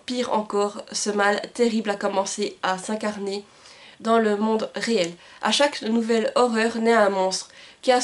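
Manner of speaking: measured, storytelling read of a back-cover blurb; reading a book summary. Acted. Booktuber reading the back cover to her viewers, storytelling read. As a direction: read the summary like a narrator presenting a dark fantasy. Reads the book's summary aloud.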